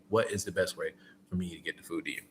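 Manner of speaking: "What is the best way for me to get the food to you?" said quick and soft; quick smooth ask. Shown as a demonstration. Driver showing how to ask the customer, quick and soft. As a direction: rattle the question off fast and easy. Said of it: "And just run 'em like that".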